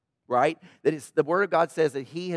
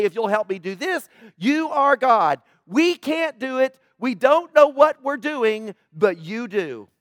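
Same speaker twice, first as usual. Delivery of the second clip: slow, sure prayer, a touch louder; said with confidence; 4 semitones higher, 3 dB louder, slower than usual. Retold or imitated. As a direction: pray slowly with calm certainty. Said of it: "And it's said with confidence".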